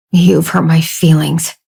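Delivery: slow, sulky hurt tone; pouty. Acted. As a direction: pout through the line. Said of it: "and he pouted".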